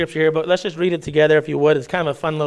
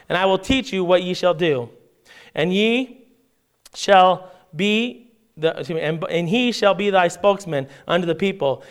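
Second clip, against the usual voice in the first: measured, raised reading of the passage; scripture reading; 3 semitones higher than usual. Acted. Pastor reads Exodus aloud to the church, measured reading voice. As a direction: read the King James text to the congregation.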